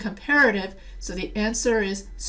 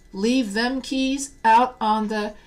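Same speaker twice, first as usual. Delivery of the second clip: Southern accent; 4 dB louder, slower than usual. Shown as a demonstration. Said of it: "the reason why I did the Southern accent".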